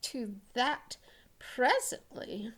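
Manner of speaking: a vain ogre showing off; boastful ogre. Acted. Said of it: "cried the ogre".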